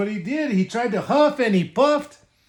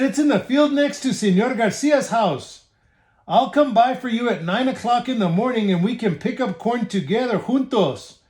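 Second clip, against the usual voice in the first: higher coaxing wolf; sly wolf voice; 3 semitones higher than usual. Acted. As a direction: sell the plan sweetly. Wolf sets the trick.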